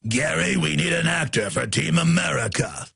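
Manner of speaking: lightly voiced action-film character; slightly put-on voice, recruiting an actor; Team America impression. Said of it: "they're putting up a Team America".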